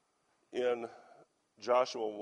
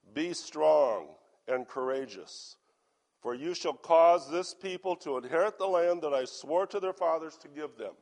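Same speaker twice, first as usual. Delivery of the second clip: scripture reading; 2 semitones higher, 6 dB louder than usual. Acted. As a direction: read the charge out firmly. Reads scripture to congregation.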